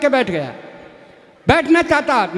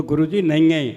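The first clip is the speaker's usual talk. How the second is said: put-on dim village boy; 9 semitones lower than usual. Boy protests to his teacher in a deep rustic voice.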